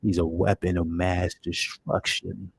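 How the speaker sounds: slow, weighty hero delivery; Hawkman cadence. Retold or imitated. Fan copying Hawkman's cadence, slowly and deliberately. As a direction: lay every word down slowly like the hero. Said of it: "His cadence, the way he delivers it".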